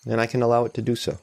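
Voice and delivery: calm, even meditation guide with long pauses; unhurried guidance, leaving room between phrases; guided meditation. Real, not acted. Meditation teacher easing listeners into noticing tension and support, calm guided meditation.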